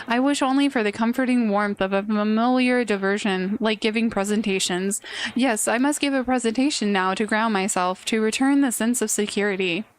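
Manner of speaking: flat, uninterested line reading; bored voice. Acted. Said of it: "I'm getting my bored voice ready".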